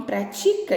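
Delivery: "pratica" stressed as pra-TI-ca, slowly; stress on penultimate syllable. Shown as a demonstration. Teacher contrasting the verb for pupils, stressing TI in "pratica". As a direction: hit the TI in "pratica". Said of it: "a sílaba tônica é a penúltima".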